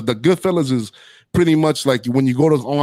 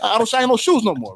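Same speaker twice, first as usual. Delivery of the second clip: higher, rising mock protest of the ex-shoeshine boy; hammed-up defensive gangster, pitched up; retold Billy protesting; 7 semitones higher than usual. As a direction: play the young guy brushing off the insult, voice climbing. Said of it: "he's like".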